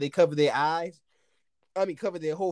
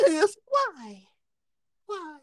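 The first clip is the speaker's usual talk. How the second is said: high whiny mock sob, much higher; mock crying; much slower than usual. Retelling his frustration to his friend, mock crying. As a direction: whine it like a fake cry.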